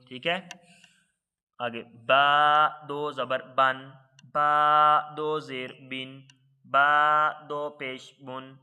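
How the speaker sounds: slow, even chant of letter, harakat, sound; Qaida spelling drill. Shown as a demonstration. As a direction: sound it out syllable by syllable for the class. (قاعدہ کی ہجے کی مشق، ٹھہر ٹھہر کر)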